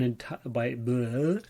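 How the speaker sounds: tongue-tied, breaking into a bleh; stumbling over words. Real, not acted. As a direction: fumble the words and give up with a blurted noise. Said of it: "just stumbling over my words".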